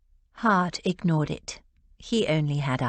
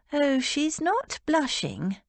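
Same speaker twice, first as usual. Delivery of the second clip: dry; 8 semitones higher than usual. A narrator's reading. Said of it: "Rose pointed out dryly".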